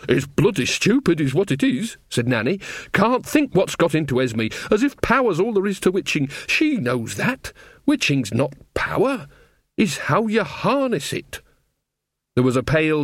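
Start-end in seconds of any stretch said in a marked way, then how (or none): 0.1-2.0 cross, down-to-earth country witch; grumbling old witch. A narrator's reading. Old witch condemns the contest to queen, grumbling. 2.9-11.4 exasperated country witch, emphatic; grumbling old witch. A narrator's reading. Old witch frets over her friend's folly, grumbling.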